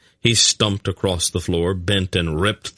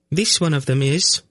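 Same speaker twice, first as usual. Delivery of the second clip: high, warning edge; a threat held in, pitched high; high-voiced warning to a captive; dangerous note; 9 semitones higher than usual. A narrator's reading. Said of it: "the note in her voice that warned Geryon".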